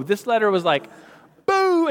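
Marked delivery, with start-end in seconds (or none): 1.4-1.9 mock boo. Mocking the letter's tone.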